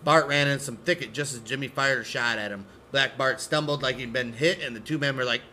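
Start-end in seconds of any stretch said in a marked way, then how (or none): none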